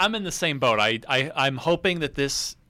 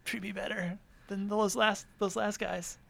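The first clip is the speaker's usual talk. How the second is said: high, breathy-free pleading lover, laughing between; mock lovestruck plea; 6 semitones higher, 4 dB quieter than usual. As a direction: swoon at the new studio like a jilted spouse. Mock love plea to studio.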